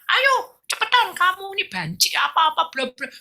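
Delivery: high, loud taunting friend; mocking taunt. Devil-led friend taunts the girl, high mocking voice. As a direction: jeer at her, pitched high. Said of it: "iblis masuk ya temennya".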